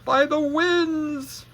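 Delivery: put-on slow, high, stretched African accent; drawn-out attempt at an African accent. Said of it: "a girl African accent".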